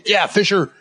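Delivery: imitated indignant holler; playing-along yell. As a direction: pretend to tell someone off, only half yelling. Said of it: "I yell too, 'cause I'm, like, playing along".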